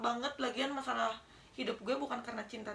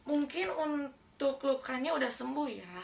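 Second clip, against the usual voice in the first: slow, heavy, husky voice; low rough voice, slowly; deep hoarse voice. Real, not acted. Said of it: "suara gue berat banget ya". (suara berat serak)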